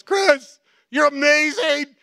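high, loud, slow gushing; mock adoring wife. Wife on her knees praising her husband, high and gushing.

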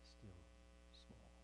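fading down to almost nothing; still small voice. Shown as a demonstration. Preacher showing God's still small voice, fading to a hush. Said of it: "It simply whispers".

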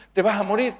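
high, rising question; worried question. Acted. Acted wife asks husband about results.

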